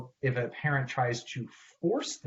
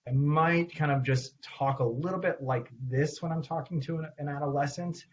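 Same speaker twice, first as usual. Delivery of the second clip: put-on subtly lifted inflection for a teenager; talking to an adolescent; 3 semitones higher than usual. Shown as a demonstration. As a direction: speak to a teen, only slightly emphasized. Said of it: "Adolescence, it's a little bit more subtle".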